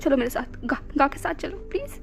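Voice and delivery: put-on calm him down like a frightened child; soothing lover. Jahan soothing drunk Ibo.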